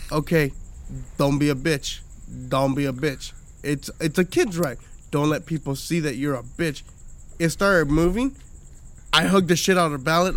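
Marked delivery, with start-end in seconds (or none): 0.1-6.8 softer, lower nervous self-talk; pep talk to self. Retold or imitated. Psyching himself up on a kid's ride, quietly. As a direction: mutter courage to yourself under your breath. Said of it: "I'm like".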